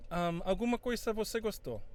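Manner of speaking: usual speaking voice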